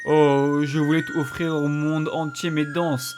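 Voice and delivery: mournful ghost dancer. Acted. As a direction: wail it like a grieving spirit. Ghost dancer lament read aloud.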